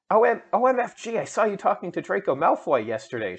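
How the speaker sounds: high, loud gushing burst at the start; excitedly. A narrator's reading. Willow gushes to Ebony about Draco, excitedly. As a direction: squeal it out like gossiping friend. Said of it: "she said excitedly".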